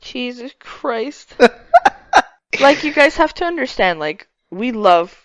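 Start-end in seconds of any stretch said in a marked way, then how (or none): 0.0-1.3 laughing. Real, not acted. Laughing in disbelief.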